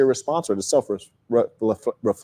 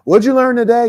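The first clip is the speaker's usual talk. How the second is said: dutiful mom question; 8 semitones higher, 5 dB louder than usual. Retold or imitated. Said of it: "my mom like".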